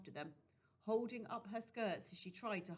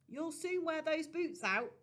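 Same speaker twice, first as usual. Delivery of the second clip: warning; 9 semitones higher, 7 dB louder than usual. A narrator's reading. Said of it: "Rosie warned him".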